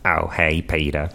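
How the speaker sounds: mellow cartoon neighbour impression; Cleveland. Guest imitates Family Guy neighbour, cartoon impression. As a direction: greet a pal in a cartoon voice. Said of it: "Let's do Cleveland from Family Guy".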